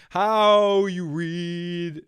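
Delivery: very slow, drawn-out mock old-timey read; a half-hearted stab at sounding old-fashioned; attempted old-timey voice. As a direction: stretch it out like a stiff old-fashioned orator. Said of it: "I was gonna start trying to talk old-timey".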